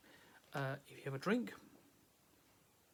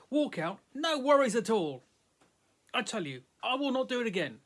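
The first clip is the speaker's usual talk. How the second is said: loud, high, hammed-up yell at the listener; 5 semitones higher, 4 dB louder than usual. A narrator's reading. Hanufa yelling at the doubting guy, loud and high. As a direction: bellow it, pitch raised and pushed. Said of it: "she is yelling".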